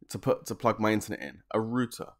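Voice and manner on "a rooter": "router" said as "rooter"; "router" as ROO-tuh, British and matter-of-fact; British pronunciation. Shown as a demonstration. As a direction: give "router" an oo vowel. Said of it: "I say router, you say router".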